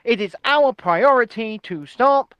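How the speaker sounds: mock-solemn, measured pledge; lightly put-on political authority; Rishi Sunak. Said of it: "it sounds so serious".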